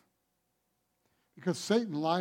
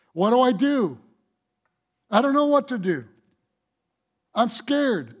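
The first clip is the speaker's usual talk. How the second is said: higher, louder frightened cry; mock panic; 6 semitones higher, 7 dB louder than usual. Preacher voicing a believer overwhelmed by circumstances, mock panicked. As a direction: act out helpless fear. Voices frightened person under pressure.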